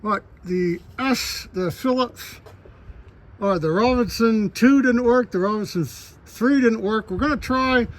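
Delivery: talking around screws in mouth. Real, not acted. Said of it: "I got screws on those".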